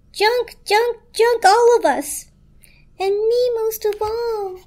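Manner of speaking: very high, slow, wailing blanket; hysterical shriek. A narrator's reading. Blanket despairing to the toaster, high hysterical wail. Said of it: "shrieked the blanket hysterically".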